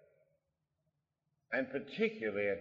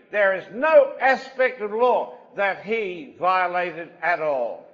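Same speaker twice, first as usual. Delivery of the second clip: forceful preaching; 11 semitones higher, 14 dB louder than usual. Acted. Preacher exhorting his congregation, loud and forceful. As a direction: drive each line home to the congregation.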